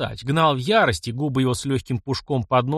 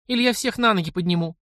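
угрожающий выкрик; 8 semitones higher than usual. A narrator's reading. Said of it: "крикнула она".

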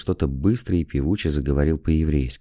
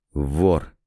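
understated disgusted accusation; a hint of disgust, as if about to spit. A narrator's reading. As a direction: spit the word out in contempt. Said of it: "проговорил он с отвращением".

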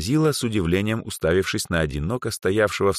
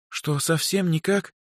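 put-on higher, slow timid hopeful girl; understated timid plea; 12 semitones higher, slower than usual. A narrator's reading. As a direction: ask shyly, hoping. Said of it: "робко спросила с надеждой Даяна".

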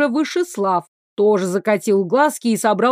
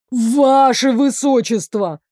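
slow, drawn-out wail on «Ваше высочество»; guard howling to the prince for mercy; 2 semitones higher, 3 dB louder, slower than usual. Acted. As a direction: howl out «Ваше высочество» in despair. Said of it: "стражник взвыл по-настоящему".

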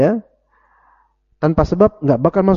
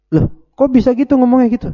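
mock surprise; 8 semitones higher, faster than usual. Imagined questioner protests.

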